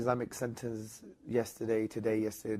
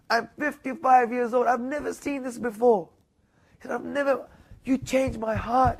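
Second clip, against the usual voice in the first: moved retelling; 10 semitones higher, 7 dB louder than usual. Retold or imitated. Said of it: "and he was crying".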